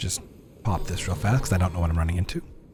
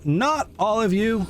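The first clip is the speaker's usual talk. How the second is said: drawn-out whine; 12 semitones higher, slower than usual. Real, not acted. Repeats, higher and slower.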